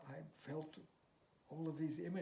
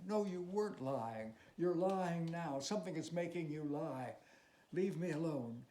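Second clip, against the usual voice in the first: raised, sharp scolding voice; angry refusal; 4 semitones higher, 5 dB louder than usual. Acted. Teacher shouting at his student to end it. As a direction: snap it out, higher and louder. Bellini quarreling with Marette.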